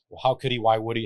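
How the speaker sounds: despairing widow asking why; pleading questions. Retold or imitated.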